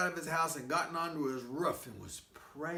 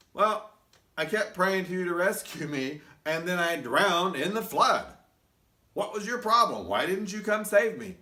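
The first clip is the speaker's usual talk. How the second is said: indignant complaint; 2 semitones higher, 8 dB louder than usual. Acted. Man complains to God.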